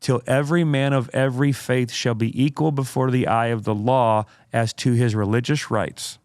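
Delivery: slow, deliberate oratorical reading; dramatic quote reading. Acted. Host reads Spurgeon's quote to co-host, dramatic oratory. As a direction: read it out with weighty pauses. Builds the quotation to its point.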